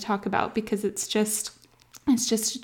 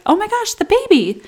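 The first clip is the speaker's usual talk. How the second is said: much higher, louder gushing squeal; gushing visitor; 13 semitones higher, 7 dB louder than usual. Retold or imitated. Visitors ignore mom and gush over baby, high squeal. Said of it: "they're like".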